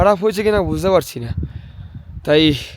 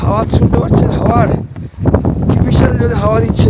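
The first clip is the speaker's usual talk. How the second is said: shouting over wind; 2 semitones higher, 4 dB louder than usual. Real, not acted. Strong wind, cold on mountain.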